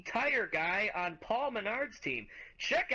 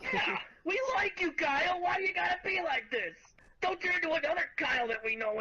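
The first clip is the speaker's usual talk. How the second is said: half-shouted, pitched up plea; mock plea; 6 semitones higher than usual. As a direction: call out to him, hammed-up and pleading. Calling out to the driver.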